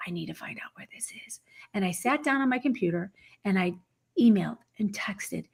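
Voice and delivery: hushed, breathless whisper; urgent whispered retelling. Retold or imitated. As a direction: whisper it like a secret search. Secretly searching, whispering.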